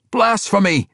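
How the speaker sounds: furious high shout. Acted. King Emrys accusing Bruner, outraged shout. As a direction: hurl the word as an outraged cry. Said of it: "Emrys shouted".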